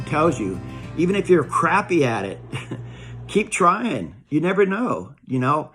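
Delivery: put-on earnest, rising encouragement to the young; heartfelt advice. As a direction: urge them on warmly, building up. Pep talk over music.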